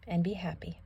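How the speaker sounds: soft whisper; hushed bedtime whisper. A narrator's reading. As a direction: breathe it out gently. Soft ending to the mother passage.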